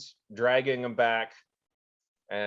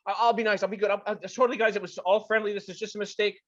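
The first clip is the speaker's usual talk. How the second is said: high, loud frantic pleading; horrified begging; 7 semitones higher, 4 dB louder, faster than usual. Acted. Annie begging the players to save him, horrified. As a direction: beg for mercy. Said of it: "all of a sudden horrified".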